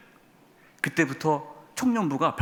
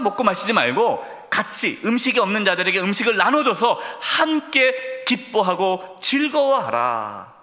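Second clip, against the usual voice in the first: exhorting prophet; 5 semitones higher, slower than usual. Retold or imitated. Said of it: "에스라가 얘기하는 겁니다".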